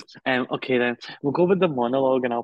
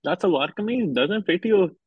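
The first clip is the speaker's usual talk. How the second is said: higher, taunting recital of an auntie's jibes; mocking auntie voice; 5 semitones higher than usual. Performer reciting family taunts from his poem, mocking auntie lilt. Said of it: "What are the next three lines?".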